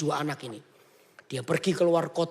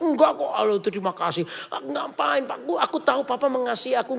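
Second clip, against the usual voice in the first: eager grateful son; 4 semitones higher than usual. Acted. Grateful son insists cheerfully.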